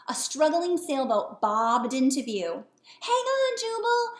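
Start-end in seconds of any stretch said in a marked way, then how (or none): 3.0-4.1 high, loud urgent shout; anxious call. Acted. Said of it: "an anxious voice called".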